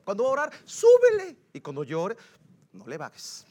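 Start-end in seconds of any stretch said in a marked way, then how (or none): 0.6-1.4 high, loud call. Acted. Preacher telling sound crew to turn it up, calling out. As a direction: shout the request upward. Calls for the volume up.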